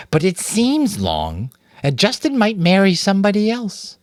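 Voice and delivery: put-on a young rat sighing over a crush; wistful girl rat. A narrator's reading. Girl rat confiding about Justin, high and wistful.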